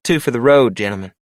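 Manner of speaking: April cutting in, high and bright-voiced; bartender April. A narrator's reading. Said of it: "Her message was clear".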